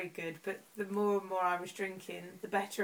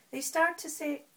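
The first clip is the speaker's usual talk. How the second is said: higher, Irish-sounding attempt at Welsh; attempted Welsh accent; 6 semitones higher than usual. Shown as a demonstration. Host fumbling an impression, Welsh accent sliding into Irish. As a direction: try Welsh and slip towards Irish. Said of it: "no, that's Irish again".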